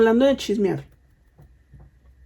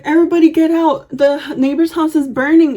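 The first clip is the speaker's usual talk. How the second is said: higher, quick mock warning; re-enacted hurried order; imitated urgent alarm; 4 semitones higher than usual. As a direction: play an aunt sounding the fire alarm. Aunt's fire alarm retold.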